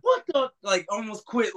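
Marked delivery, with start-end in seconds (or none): 0.0-0.5 stunned disbelief. Retold or imitated. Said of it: "Gerard's reaction".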